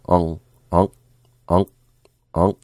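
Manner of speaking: onk with the k held, not released; unreleased k. Shown as a demonstration. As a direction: say onk and stop the air on the k. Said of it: "don't release the K".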